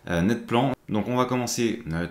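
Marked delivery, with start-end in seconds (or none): 0.2-0.7 Netplan said the French way, Net-plan with French vowels; just say Netplan with a plain French accent. Shown as a demonstration. Naming the tool for viewers, French accent. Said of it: "je vais le dire avec l'accent français".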